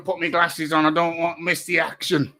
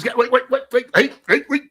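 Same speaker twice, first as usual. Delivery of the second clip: mock sparring yells; 7 semitones higher, 5 dB louder, faster than usual. Pretend sparring, shouting.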